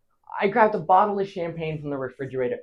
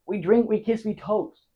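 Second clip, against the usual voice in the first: higher, lifted repeat of the toasts; merry toasting refrain; 5 semitones higher than usual. Acted. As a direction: lift "we toast" as the drinking goes on. Repeated toasts, getting merrier.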